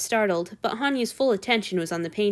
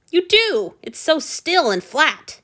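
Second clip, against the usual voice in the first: high, loud, slowing protest; tearful happy Hanyu; 9 semitones higher, 6 dB louder, slower than usual. A narrator's reading. Hanyu insisting to Antony, high and teary-happy. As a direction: beam through happy tears.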